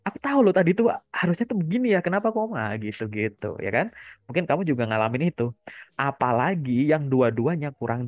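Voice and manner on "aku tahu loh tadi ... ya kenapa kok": high, fast regretful student. Retold or imitated. Mentor imitating a fresh grad after a test, high and fast. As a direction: rush it out like a student kicking themselves after a test. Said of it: "tapi kalau habis tes".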